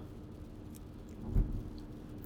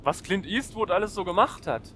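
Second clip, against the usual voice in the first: repeated louder and clearer; 4 semitones higher than usual. Real, not acted. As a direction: say it again so they hear. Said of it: "Hä?".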